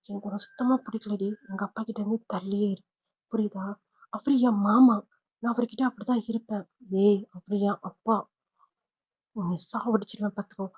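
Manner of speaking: put-on a boy's quiet, jealous threat; hushed threat. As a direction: threaten her under your breath. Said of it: "மிரட்டிட்டே போயிடுறாரு".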